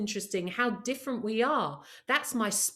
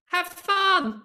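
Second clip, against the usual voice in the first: excited; 8 semitones higher, 6 dB louder than usual. Real, not acted. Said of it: "My last point, have fun".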